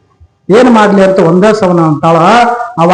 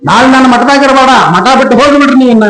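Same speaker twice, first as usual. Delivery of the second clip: mildly stern guru, higher voice; stern order; 5 semitones higher than usual. Acted. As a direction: dismiss the disciple, quick and raised in pitch at the end. Guru's order, repeated by teller. (ಸ್ವಲ್ಪ ಕಟ್ಟುನಿಟ್ಟಾದ ಗುರುವಿನ ಆಜ್ಞೆ)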